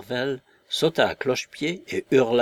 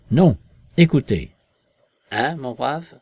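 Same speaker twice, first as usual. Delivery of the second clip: forceful, raised voice; vibrant with energy; 3 semitones higher, 8 dB louder than usual. A narrator's reading. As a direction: cut in with commanding energy. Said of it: "fit la voix vibrante d'énergie". (voix vibrante d'énergie)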